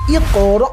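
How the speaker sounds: ইয়ে কর ending in an abrupt glottal catch; jerked stop. Shown as a demonstration. Quran teacher demonstrating the rule just explained, jerked stop. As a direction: snap the final র shut without stretching. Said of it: "ঝাটকা দিয়ে পড়তে হবে".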